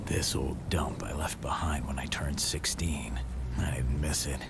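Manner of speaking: hushed, half-whispered thoughts to himself; inner monologue. Acted. Brother returning to his old home, hushed inner monologue. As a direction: think it aloud under your breath.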